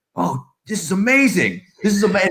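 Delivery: acted-out thrilled gushing, high and delighted. Retelling a man's reaction once his email finally loads: imitating a delighted man. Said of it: "happy as a clam".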